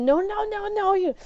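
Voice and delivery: high, sharp repeated no; angry no. Retold or imitated. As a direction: shut her down fast. Confronting cat thief.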